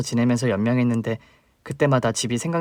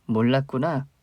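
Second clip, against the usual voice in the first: ordinary talk, nothing marked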